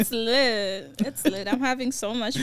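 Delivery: sarcastic. Acted.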